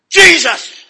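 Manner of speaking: loud, high holler of Jesus; sudden full-voiced cry; battle-cry shout. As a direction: burst out like a charge at someone. Calling out in retold charge.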